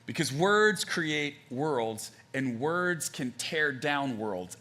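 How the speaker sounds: slow, deliberate emphasis; slow and weighty. Real, not acted. Preacher stressing his main point, slow and weighty. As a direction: land each word slowly. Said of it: "weighty sermon point".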